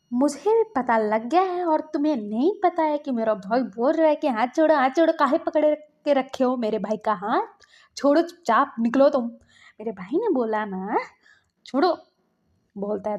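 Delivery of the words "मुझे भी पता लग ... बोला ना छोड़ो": loud, mildly angry acted demand to let go; indignant scolding. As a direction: scold the couple with raised voice. Acted sibling orders hand released.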